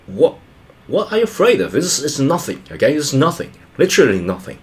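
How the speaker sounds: lightly acted father brushing off fears, pitch jumping up; dismissive father. Father comforting his frightened kids, mildly dismissive. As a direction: imitate a dad's mildly incredulous reassurance. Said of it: "as a father, I think".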